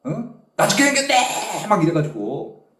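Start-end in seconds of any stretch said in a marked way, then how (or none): 0.5-1.7 high-pitched mock cry of doom; retold wail, pitched way up; imitated scream. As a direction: act out yelling in mortal panic. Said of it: "소리 질렀다는 거 아니야".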